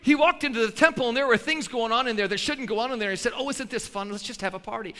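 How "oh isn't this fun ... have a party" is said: softer, breezy mock party voice; a hint of a soft, airy party host; mock gentle Jesus. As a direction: lightly play a limp, cheerful Jesus. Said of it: "No, he didn't talk like that".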